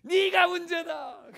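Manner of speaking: huge drawn-out high shout; mock divine roar, each word stretched; booming voice of God. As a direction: thunder a rebuke from heaven, hammed up. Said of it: "큰 목소리로 얘기하셨대요".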